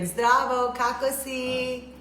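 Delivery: Zdravo, kako si said slowly, kako si stretched; careful slow Serbian; Serbian greeting. Shown as a demonstration. Host tries Serbian on her husband, slow and careful. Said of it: "tell us something in Serbian".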